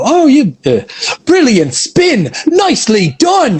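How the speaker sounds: animated, over-the-top Irish accent, very high, swooping. Demonstrating a voiced line for a lucky slots job, in an over-the-top irish accent. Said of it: "I got to do like a Irish accent".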